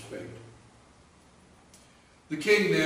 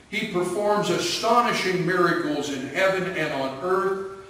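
royal proclamation; 2 semitones higher than usual. Acted. King Darius to every nation, proclaiming. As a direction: proclaim it to the whole world.

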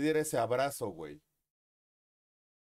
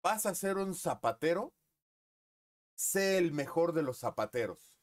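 higher, emphatic grandfather; grandfather's advice; 5 semitones higher, 3 dB louder than usual. Retold or imitated. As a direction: preach it like grandpa. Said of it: "como me lo dijo mi abuelo".

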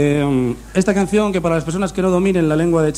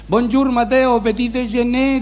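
high put-on French waiter voice, well above his own; 9 semitones higher, slower than usual. A French hotel waiter greets Mateos in a high French voice. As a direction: ham up a Parisian waiter greeting. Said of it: "le dice el camarero".

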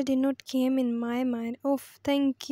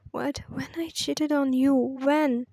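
louder, disbelieving challenge; indignant outburst; 4 dB louder, slower than usual. Acted. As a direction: throw the question right back at her. He answers her accusation.

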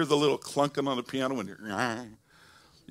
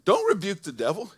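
louder, higher voice of God with authority; God's voice; 8 semitones higher, 8 dB louder than usual. Acted. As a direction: speak as God reassuring the tither. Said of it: "God said".

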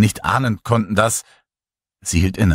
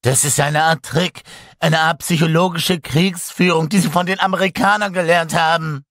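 angry accusation; 9 semitones higher than usual. A narrator's reading. Pilot accuses them angrily.

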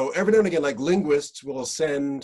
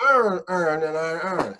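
louder Baltimore "Earn, earn, and iron, earn"; Baltimore accent; 4 semitones higher, 4 dB louder than usual. Retold or imitated. Host imitates Baltimore man's phrase, Baltimore accent. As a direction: repeat in Baltimore. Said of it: "Baltimore accents".

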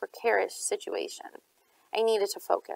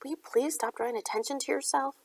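angry whisper; 5 semitones higher, 5 dB quieter than usual. A narrator's reading. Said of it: "I whispered angrily".

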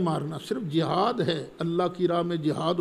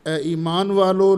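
louder, proclaiming address; calling out; 6 dB louder than usual. Real, not acted. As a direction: call out to the believers. Preacher calls out the address.

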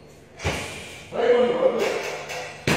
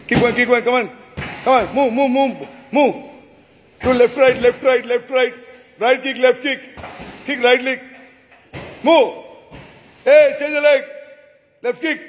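loud drill commands, raised pitch; shouting orders over battle; 5 dB louder than usual. Real, not acted. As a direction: bark out kicks to the class. Karate coach drilling students.

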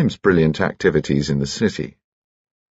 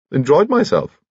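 put-on chirpy piping little old gentleman, much higher; high-pitched Bunchy; 10 semitones higher, 3 dB louder than usual. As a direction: pipe cheerfully like a tiny jolly gent.

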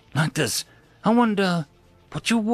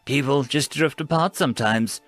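soothing; 3 semitones higher than usual. Acted. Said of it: "Jennifer said in a tone that Grice found oddly soothing".

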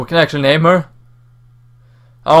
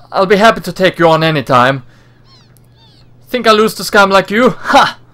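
cocky taunt; 5 semitones higher than usual. Acted. Heroine taunts the thugs.

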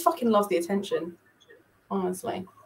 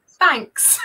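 deadpan thanks; 5 semitones higher, 5 dB louder than usual. Retold or imitated. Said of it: "he was just like".

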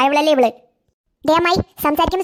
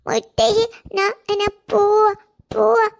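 put-on much higher toddler voice babbling; baby talk; 7 semitones higher, much slower than usual. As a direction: babble like a small child to grandma. Toddler says she is going. (കൊഞ്ചി പറയുന്ന കുഞ്ഞ്)

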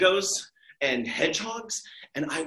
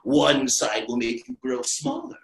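slow, lower, wise voice; wise caterpillar; 5 semitones lower than usual. Acted. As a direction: counsel her slowly like an old sage. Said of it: "says to her very wisely".

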